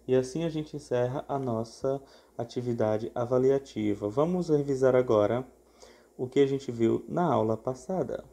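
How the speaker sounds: flat, even robot voice. Real, not acted. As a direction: speak like a monotone robot. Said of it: "Tô falando igual um robô agora".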